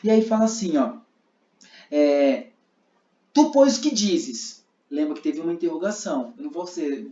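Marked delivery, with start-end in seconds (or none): 3.3-4.7 slow, high challenging question; interrogating Pharisee. Shown as a demonstration. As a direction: demand an answer, drawn out. Fariseus interrogando Jesus. (pergunta desafiadora e lenta)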